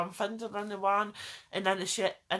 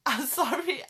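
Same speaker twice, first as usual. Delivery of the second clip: laughing apology; 5 semitones higher, 3 dB louder than usual. Real, not acted.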